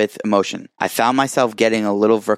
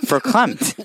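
laughing; 12 semitones higher than usual. Real, not acted. Laughing at odd word.

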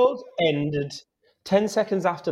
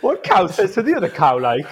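louder, higher hammed-up Geordie; overdone northeastern accent; 4 semitones higher, 5 dB louder than usual. Guest sends up his own cow joke, exaggerated Geordie accent. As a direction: play up the Newcastle accent. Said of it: "thinking about the accent too much".

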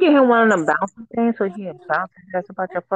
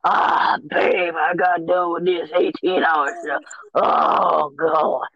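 mock grown-man groan, dropping lower; grunting baby imitation; 4 semitones lower, slower than usual. Imitating a baby grunting like he finished an eighteen-hour shift, weary mock groan. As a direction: play the baby as a worn-out worker, groaning. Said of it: "Yeah, and grunting".

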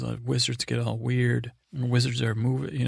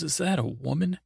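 scumbag's snide, high-pitched question; incredulous jibe with a rising end; Jaime; 5 semitones higher than usual. Retold or imitated. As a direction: imitate a dirtbag's mock disbelief, pitch lifted. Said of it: "it's delivered with ... such".

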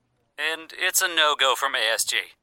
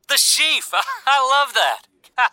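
high, loud, laughing; laughing delight; 10 semitones higher, 5 dB louder, slower than usual. Acted.

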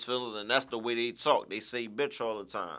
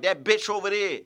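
mock Southern slang; 7 semitones higher, 5 dB louder than usual. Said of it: "That's how they talk down south".

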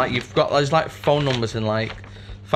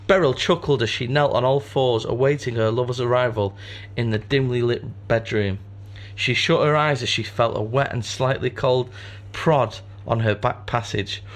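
story narration. Acted. Reads story aloud.

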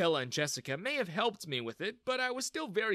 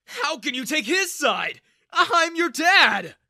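high, loud wounded outrage; outraged shout; 12 semitones higher, 12 dB louder, slower than usual. Acted. Father shouts at his daughter for siding with Ethan, outraged. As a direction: yell back at her, slow at the end.

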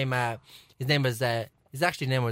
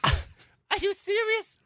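high, slow, drawn-out incredulous question; mock disbelief; 13 semitones higher, much slower than usual. Real, not acted. Disbelief at his friend's mistake, drawn out high. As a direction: stretch it out like you can't believe it.

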